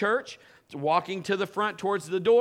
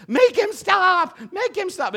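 high, shrieking, drawn-out panic; frantic shriek; 13 semitones higher, 9 dB louder, slower than usual. Retold or imitated. Woman panics at Pastor Kim, shrieking high. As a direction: scream it like she's being hunted. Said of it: "she runs up to Pastor Kim and she says".

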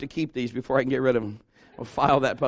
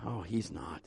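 doubting listener; 12 semitones lower, 16 dB quieter, slower than usual. Pretend. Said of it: "You might be saying".

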